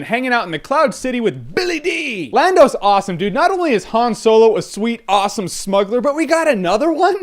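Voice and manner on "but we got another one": laughing excitement. Real, not acted. Excited laugh about Lando.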